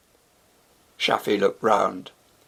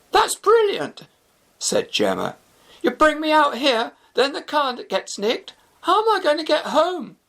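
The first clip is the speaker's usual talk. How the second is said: sarcastic annoyance. Acted. Gemma furious at stranded night.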